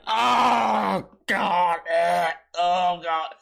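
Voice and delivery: loud strained groan getting up; pained groans, sore legs rising from a lawn chair; old man groans. Retold or imitated. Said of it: "I'd be like".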